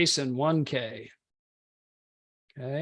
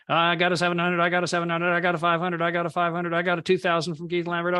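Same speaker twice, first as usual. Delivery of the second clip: light auctioneer patter, pitched higher; 4 semitones higher than usual. Retold or imitated. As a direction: call the bids like an auctioneer, lightly. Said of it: "I feel like an auctioneer".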